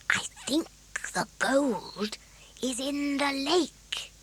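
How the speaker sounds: hushed whisper, slow at the end. A narrator's reading. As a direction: keep it secret from the trolls. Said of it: "he whispered".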